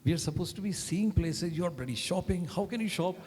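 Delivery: imitating an indignant colleague's outburst; retold angry shout. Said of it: "he shouted at me so much".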